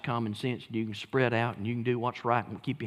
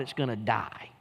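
whispered warning; 4 semitones lower than usual. Retold or imitated. Quoting Gamaliel's counsel.

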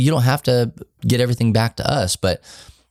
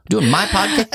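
put-on kid voice; 13 semitones higher than usual. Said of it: "he ... decided".

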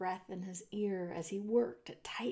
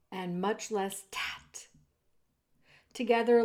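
ordinary delivery, nothing marked

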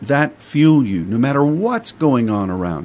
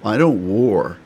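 mock lazy intercessor. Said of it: "some people really like the warm and cuddly".

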